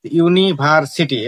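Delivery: ইউনিভার্সিটি in separate chunks, ইউনি-ভার-সিটি; measured demo of ইউনিভার্সিটি, part by part; split into chunks. Shown as a demonstration. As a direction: say ইউনিভার্সিটি slowly in parts. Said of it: "এভাবে অন্তত তিনবারে".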